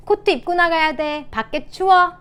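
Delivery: high, loud insistence; nagging parent. Shown as a demonstration. Parent to a child going outside, acted nagging. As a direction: act a parent fussing and nagging. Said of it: "보다는".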